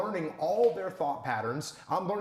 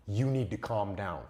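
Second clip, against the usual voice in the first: dismissive quote; 5 semitones lower than usual. Retold or imitated. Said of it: "without saying".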